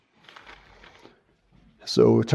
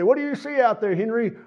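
high, playful showman question; ventriloquist's own voice; 8 semitones higher than usual. Retold or imitated. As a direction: ask the dummy like a kids' show host. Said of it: "And he'd say".

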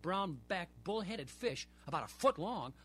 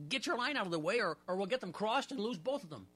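ordering; 4 semitones higher than usual. Acted. Portry ordering his friend to move his line. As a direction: bark it at your friend. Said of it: "Portry ordered".

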